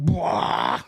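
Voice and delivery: mock "bwah" sound effect; spoken sound effect of charging through; imitated vehicle noise. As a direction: blurt out a comic engine-roar noise. Imitating the ambulance driving out.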